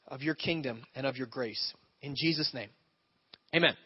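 earnest prayer to God; sincere spoken prayer; pastoral prayer. Acted. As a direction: pray it out for the room. Leads the congregation in prayer.

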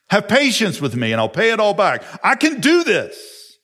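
mock desperate plea. Pastor mocks servant begging the master, high and pleading. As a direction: beg in a high hammed-up voice.

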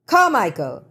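short sharp snap of a name; snapped. Acted. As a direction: bark the name out impatiently. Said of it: "he snapped at the photographer".

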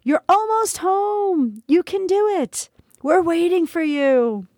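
high, slow, ethereal calls of encouragement; far-off angelic cheering; cheering angel voices. Acted. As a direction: sing out to her like spirits welcoming her home. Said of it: "Friendly voices cheered me on".

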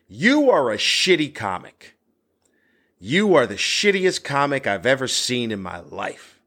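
mildly angry heckler, punched openings; retold angry heckler. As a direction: imitate an irate heckler without really yelling. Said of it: "He's really angry because his voice is elevating".

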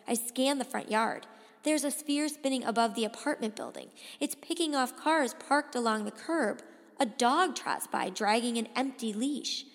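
urgent, suspenseful storytelling; story narration. A narrator's reading. Boy searching the yard for Jamie, tense narration. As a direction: keep the tension driving forward.

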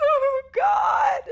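high, loud wail of dismay; appalled outcry. Real, not acted. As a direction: cry out, scandalised. Appalled reaction to the shocking quote.

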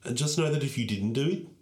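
lightly voiced dying old queen. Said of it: "it's like she's in the room".

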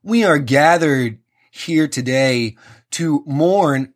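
slow, pompous mid-Atlantic priest; mock American preacher drawl, drawn out; booming mid-Atlantic drawl. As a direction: intone it slowly in a mid-Atlantic accent. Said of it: "with his big booming fucking mid-Atlantic drawl".

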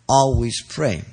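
"always" set apart and stressed. Shown as a demonstration. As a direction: lay the emphasis on "always". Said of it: "lay the emphasis on the word".

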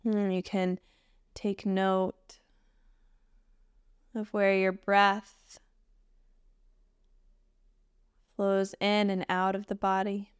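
gentle meditation guide with long pauses; unhurried, even meditation voice; guided meditation. Acted. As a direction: guide them into stillness, leaving space between phrases.

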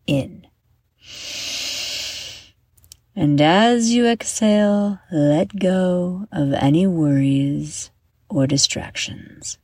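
measured guided-meditation delivery with long pauses; guided breathing. Acted. Host leading young listeners through heart diamond breathing, guided meditation. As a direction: talk listeners gently through each breath, leaving room to breathe.

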